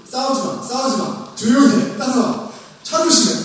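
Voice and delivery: high, insistent string of orders; mock scolding. Parent herding squabbling children to school, mock scolding. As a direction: play a parent breaking up squabbling.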